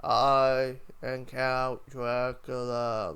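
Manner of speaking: slow, dramatic Dracula intro; a lightly voiced, very slow vampire count. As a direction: announce yourself like the Count, very slowly. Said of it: "He's like".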